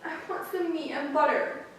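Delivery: put-on high, drawn-out childlike lament; acted hungry child near tears; sobbing little sister. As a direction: plead tearfully, dragging out the words. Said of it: "dropped her little head right down and sobbed".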